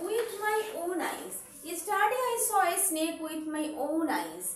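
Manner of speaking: with my own eyes, very slowly, word by word; teacher dictating slowly; slow dictation. Shown as a demonstration. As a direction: read it out slowly for copying. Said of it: "slow dictation of example".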